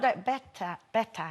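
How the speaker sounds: Geordie "better" with a dropped T; Geordie accent. Shown as a demonstration. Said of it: "So you've got to do Geordie".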